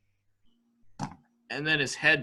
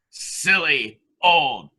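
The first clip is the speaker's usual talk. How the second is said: mocking laugh; 6 dB louder, slower than usual. Mocking dead man, laughing.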